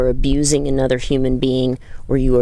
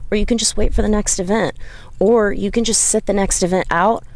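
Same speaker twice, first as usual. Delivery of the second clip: higher, lightly voiced encouragement; reassuring; 4 semitones higher than usual. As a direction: coax her gently toward a break. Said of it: "I smiled at her and I said".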